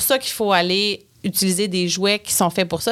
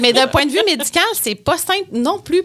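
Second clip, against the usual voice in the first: laughing while talking; 8 semitones higher, 4 dB louder than usual. Real, not acted. Laughing after the anecdote.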